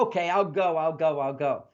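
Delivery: mock grudging surrender, falling away; grumbling. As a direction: give in with a mild grumble. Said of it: "Then I grumble".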